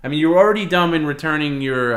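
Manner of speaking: high, loud, fast scolding. Real, not acted. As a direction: berate him, fast and loud. Berating partner who walks off.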